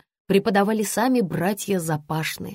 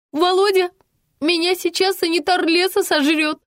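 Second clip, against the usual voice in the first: loud panicked yell, much higher; 10 semitones higher, 4 dB louder than usual. A narrator's reading. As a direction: scream for help while fleeing. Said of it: "С громким воплем".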